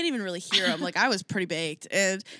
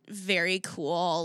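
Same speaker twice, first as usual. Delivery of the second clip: curt very cool; 4 semitones lower, much slower than usual. Retold or imitated. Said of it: "I just sounded like ... a little bit of a cunt".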